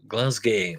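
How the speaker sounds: "Glasgow" in a lightly put-on Scottish accent. Shown as a demonstration. Jokingly saying Glasgow like a Scot, mild Scottish accent. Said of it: "as we say in Scottish".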